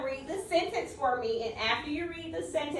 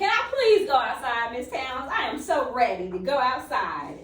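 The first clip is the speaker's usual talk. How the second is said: put-on pleading child; 3 dB louder than usual. Shown as a demonstration. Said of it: "Yes, that is a question".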